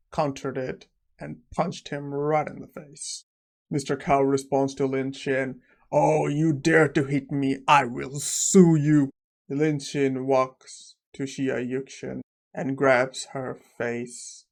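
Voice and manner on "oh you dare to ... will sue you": indignant threat. Retold or imitated. Punched villain threatens.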